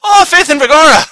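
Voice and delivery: put-on high shouted Boston accent; mock Boston accent. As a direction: yell it like a drunk Boston fan. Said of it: "The next Boston accent we do".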